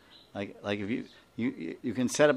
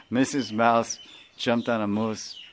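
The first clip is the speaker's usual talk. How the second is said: slow tongue twister. Shown as a demonstration. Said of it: "So you try to say that".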